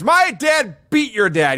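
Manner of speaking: mock outraged. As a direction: stretch it out like an indignant taunt. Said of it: "Perfect's even more outraged".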